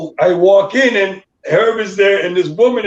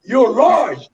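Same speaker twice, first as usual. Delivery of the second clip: excited shout; 6 semitones higher, much slower than usual. Retold or imitated. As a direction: shout it like you just spotted your friend on a billboard. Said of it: "He goes".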